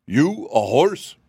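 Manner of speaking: high, slow, disbelieving; incredulous. Acted. Cab horse doubting the sawhorse is a horse, incredulous and high.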